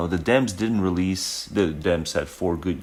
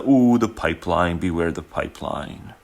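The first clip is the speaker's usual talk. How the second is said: mock warning. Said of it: "they frame it as a".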